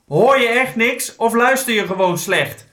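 high-pitched, exasperated storybook yell; acted cross outburst; angry shout. A narrator's reading. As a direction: shout it at someone hard of hearing. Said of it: "schreeuwde de neehoorn".

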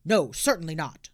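stern constable; london policeman. Acted. Policeman answers.

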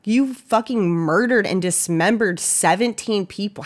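slow, indignant disbelief; mock outraged retort. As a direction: spell out the outrage slowly, half mocking. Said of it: "that made me so mad when I read that".

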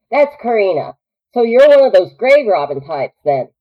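teasing Southern frontierswoman; generalized Southern accent, amused; Southern drawl. Acted. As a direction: tease them in a North Carolina drawl. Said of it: "might channel a little bit North Carolina".

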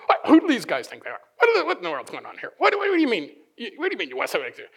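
mildly indignant muttered questions, tumbling out; indignant disciples. Acted. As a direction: act out disciples taken aback, half in earnest. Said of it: "they began to be indignant".

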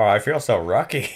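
"rocky" for lucky, mock Japanese accent. Host joking about feeling lucky, mock Japanese accent. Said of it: "what's Japanese for lucky".

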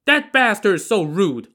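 loud, high-pitched angry retort; shouting back. A narrator's reading. Li Kui shouts back about the rude waiter, loud indignant retort. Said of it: "Li Kui shouted back".

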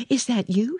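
high, glad call; a bright, surprised call upward; cried out. A narrator's reading. Mary calling to the robin on the wall, high and glad. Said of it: "she cried out".

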